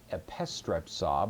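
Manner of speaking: "epistrepsa" stressed on its second syllable, PIS; antepenult stress. Shown as a demonstration. Teacher introducing the aorist form, antepenult stress. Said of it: "put the accent on the antepenult".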